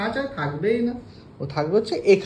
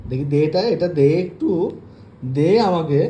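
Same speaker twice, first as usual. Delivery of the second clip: louder, insistent asking; firm demand; 2 semitones lower, 5 dB louder than usual. Real, not acted. Owner demanding the toy back from her pet, louder. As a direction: make the pet give it up.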